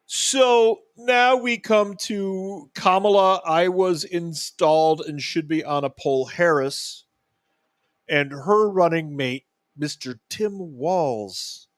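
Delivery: a faint stab at an Irish lilt, slow; mock Irish brogue, barely there; hint of an Irish accent reading the headline; bad Irish accent. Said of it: "That's my worst Irish accent".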